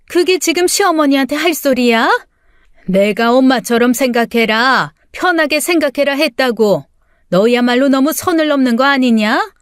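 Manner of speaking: mildly outraged, take offence; offended anger. Acted. Mother-in-law scolding her defiant daughter-in-law, indignant.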